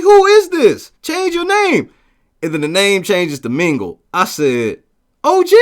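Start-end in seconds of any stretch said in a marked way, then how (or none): 0.0-1.9 high, loud mock yell; retold yell. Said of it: "I'm yelling at the motherfucker like". 5.2-5.6 high, loud startled question; the penny drops, pitched way up; surprised. Retold or imitated. Realizing the guest is OG.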